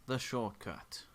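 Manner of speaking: big booming voice from above. Acted. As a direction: boom it out like an unseen giant. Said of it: "you hear a booming voice go".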